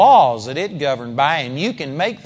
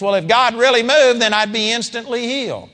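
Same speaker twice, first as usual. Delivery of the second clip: doubter's thinking; 5 semitones higher than usual. Retold or imitated. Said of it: "one of those that thinks".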